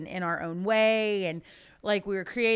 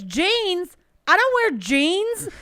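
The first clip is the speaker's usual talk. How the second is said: put-on much higher, louder confused kid; 11 semitones higher, 7 dB louder, slower than usual. Nephew mishearing genes as jeans, high kid voice. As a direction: play the puzzled little nephew.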